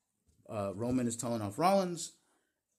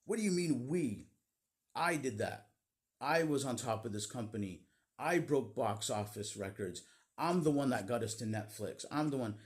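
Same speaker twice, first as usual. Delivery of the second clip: retold bowed-up brag. Roman cutting down Rollins, mock bowed-up boasting. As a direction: throw it back at him, puffed up and offended. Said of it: "really bowed up at this point and says".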